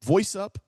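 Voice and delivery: "voice up" said high, lifting at the end. Shown as a demonstration. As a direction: lift the pitch right up on "voice up". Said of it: "we gotta do the pattern interrupt".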